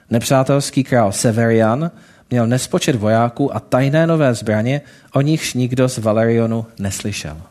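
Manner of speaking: lightly voiced storytelling read to the congregation; story narration. A narrator's reading. Preacher telling the congregation a parable, storytelling voice. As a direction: tell the parable steadily, drawing listeners in.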